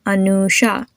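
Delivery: "Anusha" with a long oo for the u; teacher's repeat-after-me "Anusha", the u as oo; modelled "Anusha". Shown as a demonstration. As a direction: sound out "Anusha" carefully for a learner. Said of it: "Repeat after me".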